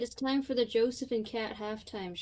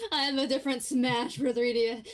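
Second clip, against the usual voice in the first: louder, higher, mock-dramatic; louder exaggerated repeat; 3 semitones higher, 5 dB louder than usual. Shown as a demonstration. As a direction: announce it like big news. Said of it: "I, I have a different Smash for three D S".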